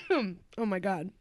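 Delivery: spluttering after choking on water; hoarse after swallowing wrong; coughing up water. Real, not acted. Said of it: "cut out me choking on, on water".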